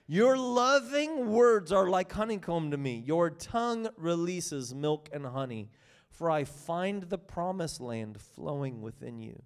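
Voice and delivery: scripture reading. Acted. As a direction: read it as the bridegroom's devotion. Reads Song of Songs text.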